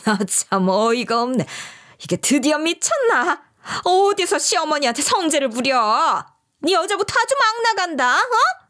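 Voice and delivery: mock outraged mother-in-law; scolding mother-in-law. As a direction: tell her off for talking back. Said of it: "혼을 내셨어요".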